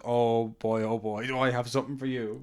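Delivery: light imitation of a heavy Montenegrin accent. Montenegrin card seller offering Jason a card, in a mock Montenegrin accent. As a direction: mimic an eager Montenegrin man with his accent. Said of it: "In his heavily accented Montenegrin voice".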